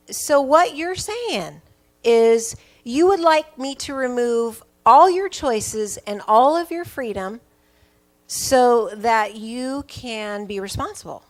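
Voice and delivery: slow, deliberate parental paraphrase, stressing key words; pointed retort. Retold or imitated. Mother hands son's complaint back to him, pointed retort. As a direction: spell it out slowly as a retelling parent.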